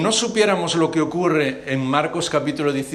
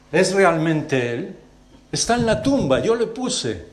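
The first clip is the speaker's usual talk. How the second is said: higher, slow, pleading lament; anguished cry; 4 semitones higher, slower than usual. Acted. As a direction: cry out to God in disbelief. José's anguished prayer. (lamento angustiado y suplicante)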